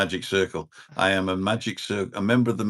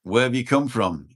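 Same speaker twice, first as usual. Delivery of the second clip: put-on Scottish accent; 3 semitones higher than usual. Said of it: "you do a good Scottish accent".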